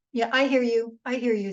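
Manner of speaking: brushing off with a quick "I hear you"; empty acknowledgement. Shown as a demonstration. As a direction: say it like hollow, automatic agreement. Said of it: "Think about the tone of that".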